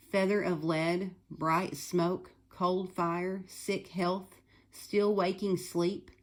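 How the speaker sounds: slow, deliberate verse reading; measured recital, pair by pair; recited oxymorons. Shown as a demonstration. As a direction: spell out each contradiction slowly for the class. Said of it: "Listen to these words".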